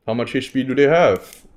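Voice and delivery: upbeat YouTuber host voice. Shown as a demonstration. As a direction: pitch it up like a YouTube intro. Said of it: "like, YouTuber voice".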